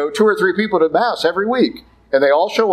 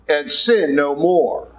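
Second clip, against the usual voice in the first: slow quoted command; slower than usual. Acted. Jesus speaking to the woman, slow and gentle. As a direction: let it fall gently. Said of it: "He said".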